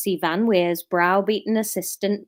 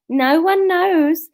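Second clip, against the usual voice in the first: Kenneth Williams voice; 7 semitones higher, 5 dB louder, slower than usual. Acted. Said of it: "Kenneth Williams".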